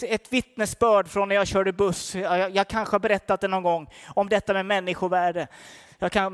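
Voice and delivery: ordinary delivery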